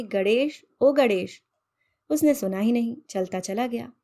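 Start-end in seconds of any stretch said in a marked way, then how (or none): 0.0-0.6 calling a name across the yard, rising. Acted. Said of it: "मैंने आवाज लगाई". 0.8-1.4 louder call. Acted. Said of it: "मैंने आवाज लगाई".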